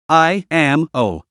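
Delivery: slow, hoarse and weak ghost. Acted. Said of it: "Her voice was hoarse and weak".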